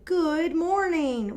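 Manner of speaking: bright, high, drawn-out greeting; excited exclamation. Shown as a demonstration. Teacher showing an exclamation mark, excited. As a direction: say it like you're thrilled to see them. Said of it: "because I am excited".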